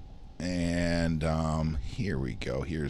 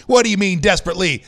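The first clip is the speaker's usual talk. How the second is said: incredulous; 8 semitones higher, 8 dB louder, faster than usual. Real, not acted. Reacting to the article's wording.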